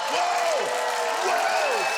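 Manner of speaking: hammed-up horror at what you just said; mock shock. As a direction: gasp at your own joke, hammed up. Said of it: "Did I say that?".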